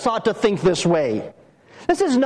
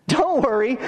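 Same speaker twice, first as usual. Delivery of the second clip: higher-pitched mock reassurance; ironic warning; 5 semitones higher than usual. Preacher warning that God will rebuke you, ironic reassurance. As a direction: lift the pitch, comfort that warns of rebuke. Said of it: "God's going to rebuke you".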